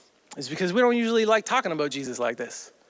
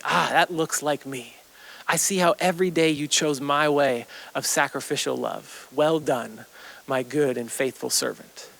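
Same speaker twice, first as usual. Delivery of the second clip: warm approval; 2 semitones lower than usual. Acted. Jesus voiced approving a faithful life.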